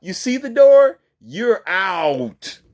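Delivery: high, loud mocking retort; scornful dismissal. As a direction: throw her out with a loud sneer. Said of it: "I'd be like".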